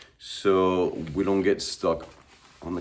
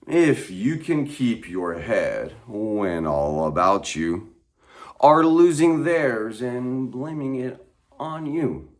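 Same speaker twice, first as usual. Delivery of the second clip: poem reading; 3 semitones higher than usual. Acted.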